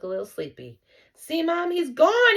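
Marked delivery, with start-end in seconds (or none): 1.1-1.7 put-on high, loud insistent boy; excited exclaim. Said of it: "Simon exclaimed". 1.7-2.4 he's gone high and loud; loud exclaim. Acted. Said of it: "Simon exclaimed".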